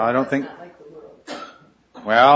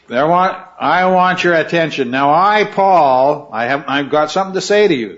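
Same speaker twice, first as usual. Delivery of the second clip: louder, punching "I, Paul"; emphatic Paul; 3 semitones higher, 4 dB louder than usual. Retold or imitated. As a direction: assert authority, stressing Paul. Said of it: "this is an em-, emphatic beginning".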